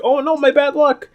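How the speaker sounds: high mock wail; mock dismay. Amelia blaming her bad luck, high mock wail. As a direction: wail it like a cursed heroine. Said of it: "She's like".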